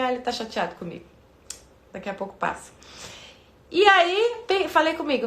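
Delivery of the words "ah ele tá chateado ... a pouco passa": quiet aside. Retold or imitated.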